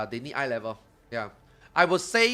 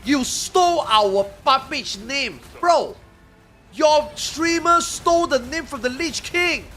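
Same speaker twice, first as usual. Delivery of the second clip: retold comeback; 8 semitones higher, 6 dB louder than usual. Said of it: "I'm like".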